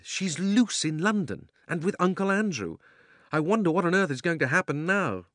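put-on high, anxious boy's voice; worried boy. A narrator's reading. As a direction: fret like a young boy.

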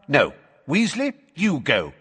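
high, curt command; barked order. Acted. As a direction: bark it at a subordinate. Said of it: "Fudge barked at Percy".

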